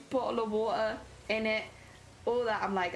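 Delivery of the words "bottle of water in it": lightly exaggerated British accent; a touch of hammed-up British; mock British accent. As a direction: mimic chat teasing a British accent. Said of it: "someone's making fun of my accent".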